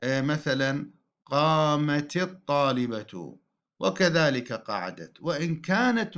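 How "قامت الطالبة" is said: "قامت" linked as qaamati into "الطالبة"; voweled ta. Shown as a demonstration. Teacher giving an example, "قامت الطالبة" linked by -ti. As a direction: give the t of "قامت" an i and join on. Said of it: "تحرك التاء".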